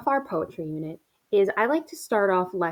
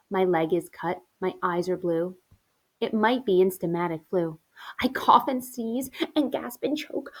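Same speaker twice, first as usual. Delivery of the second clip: expressive poem reading. Acted. Teacher reading poem to class, rhythmic complaint. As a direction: recite each ailment with mock suffering.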